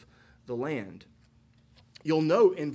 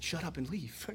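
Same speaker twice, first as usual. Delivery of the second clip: softer, mock-shocked repeat of Shut up and leave; hushed scandalized echo; 9 dB quieter than usual. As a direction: echo Shut up and leave as if the kids can't believe it. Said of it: "Pastor Nate just said".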